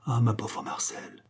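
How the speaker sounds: slow, soft sigh of pity; hushed, drawn-out compassion; weary pity. A narrator's reading. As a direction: let it drop, soft and slow, pitying. Mother pities Marcel after painful confession.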